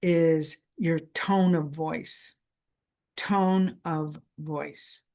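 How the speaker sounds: tone of voice, slowed right down and weighted; slow, deliberate stress on tone of voice; slow emphasis. Shown as a demonstration. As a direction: lean on tone of voice, very slow. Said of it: "one of the things you need to pay attention to".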